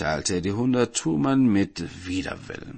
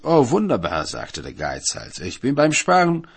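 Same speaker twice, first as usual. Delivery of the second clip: smug cheer; 4 semitones higher, 4 dB louder than usual. Acted. Miser answers the judge cheerfully.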